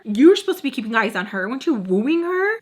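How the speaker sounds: heated argument; indignant retort. Retold or imitated. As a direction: throw the blame back at him. Arguing with the ex.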